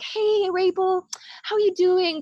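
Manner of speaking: high, slow, sing-song mock greeting; fake friendly greeting. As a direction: parody a fake-nice industry person saying hi. Mimicking fake industry greeting.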